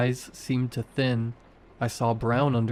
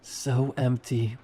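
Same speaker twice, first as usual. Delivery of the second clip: wet voice; slower than usual. A narrator's reading. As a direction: let it gurgle out slowly. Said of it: "Her voice was wet now".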